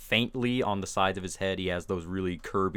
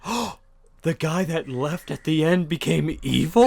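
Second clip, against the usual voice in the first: high, loud mock dismay; hammed-up betrayed disbelief; mock hurt; 7 semitones higher, 7 dB louder than usual. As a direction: imitate a wounded moviegoer, pitched way up. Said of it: "sounded like he was really hurt".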